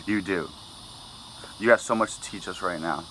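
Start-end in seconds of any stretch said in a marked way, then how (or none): 1.6-3.0 short of breath, running low on air. Real, not acted. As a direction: speak while nearly out of breath. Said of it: "I'm running out of breath and oxygen".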